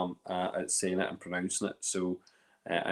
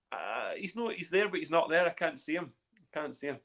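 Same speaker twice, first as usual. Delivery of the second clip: higher, softer mock fretting; retold freaking out; 7 semitones higher, 4 dB quieter than usual. Host retelling a camera panic, mock freaking out. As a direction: mildly act out your own fretting. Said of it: "I was freaking out going".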